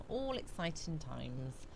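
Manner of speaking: repeated softly, dropping away; quiet. Shown as a demonstration. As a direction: echo it under your breath. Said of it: "So all exciting times".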